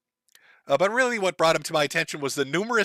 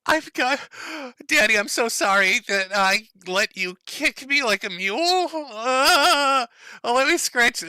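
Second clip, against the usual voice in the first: mock little girl voice; 8 semitones higher, slower than usual. Voices daughter mockingly.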